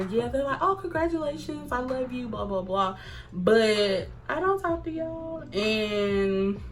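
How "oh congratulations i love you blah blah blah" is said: fake congratulations. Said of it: "half the people that's gonna be there".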